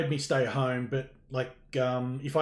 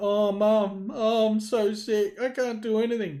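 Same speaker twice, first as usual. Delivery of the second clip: put-on poorly moan, fake sick voice, pitched up; 8 semitones higher, 4 dB louder than usual. Retelling how they pretended to be ill to their mum, fake sick voice. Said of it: "I pulled a sickie".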